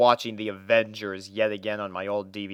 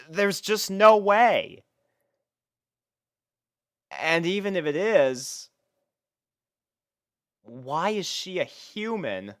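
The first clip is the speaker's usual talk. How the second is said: incredulous denial; 7 semitones higher than usual. A narrator's reading. Denying it is Twilight Sparkle.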